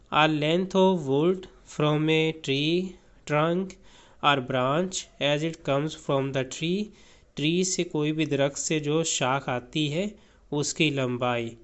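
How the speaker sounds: slow, careful read-aloud of a definition; teacher reading a definition aloud, very slowly; slow dictionary reading. Acted. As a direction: read each word slowly for the class.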